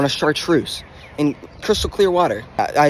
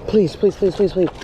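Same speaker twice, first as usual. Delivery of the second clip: pleading; 4 semitones higher than usual. Real, not acted. Begging fish stays hooked.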